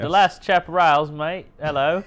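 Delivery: a light put-on Australian accent; mock Australian accent. Podcast host hamming an Australian accent for his co-hosts. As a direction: play at being an Aussie, half-joking. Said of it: "That was Australian".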